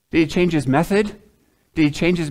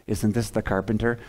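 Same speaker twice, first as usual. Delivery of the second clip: nudging neighbor; 5 semitones lower, 5 dB quieter than usual. Retold or imitated. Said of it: "you're already nodding as you say it".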